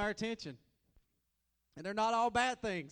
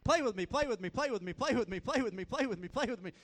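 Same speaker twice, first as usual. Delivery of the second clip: put-on high, louder child nagging; little girl begging; 4 semitones higher, 4 dB louder than usual. Daughter climbing in dad's lap, pleading child voice. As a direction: keep pestering like an eager little girl. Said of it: "this is exactly what she's doing".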